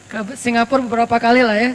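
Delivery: repeated through a chuckle; laughing aside. Real, not acted.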